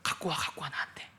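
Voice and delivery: Jesus whispering gently to the disciples; tender whisper. Acted. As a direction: coax them gently, barely voiced.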